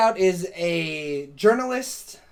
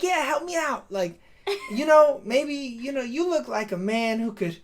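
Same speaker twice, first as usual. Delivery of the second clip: coaxing; 5 semitones higher than usual. Retold or imitated. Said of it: "And she's like".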